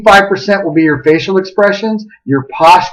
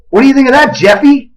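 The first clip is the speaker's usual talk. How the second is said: higher, breezy question; chirpy address; 7 semitones higher than usual. Retold or imitated. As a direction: retell a cheerful, oblivious check-in. Re-enacts chirpily addressing the man.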